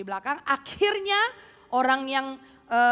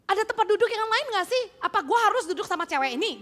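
fast, higher angry complaint; mock angry complaint; 9 semitones higher, 4 dB louder, faster than usual. Rude woman complaining aloud in the seminar room, mock anger. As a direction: demand another seat, hammed-up. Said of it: "Dia marah kan".

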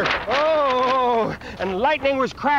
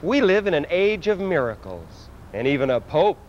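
solemn pronouncement; 10 semitones lower, 3 dB quieter than usual. Acted. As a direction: intone it low like a grand prophet. Alien Pope answering reporter solemnly.

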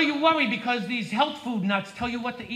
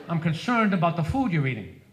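mock concerned health nut; 6 semitones lower than usual. Mocking health nut's voice.

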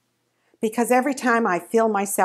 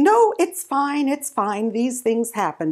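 forced cheerful brush-off; 4 semitones higher than usual. Retold or imitated. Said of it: "I'm smiling and saying".

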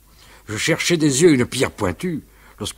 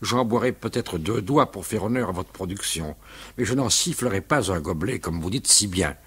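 cold; 4 semitones lower, 4 dB quieter than usual. Acted. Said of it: "le regarda assez froidement".

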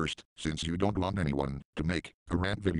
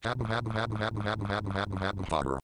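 mock robot laugh; faster than usual. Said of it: "I wish I can just laugh like that awesome Linux voice".

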